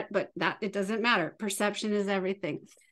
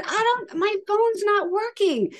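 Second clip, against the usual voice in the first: put-on whiny teen; 9 semitones higher, 3 dB louder than usual. Teen voiced in story.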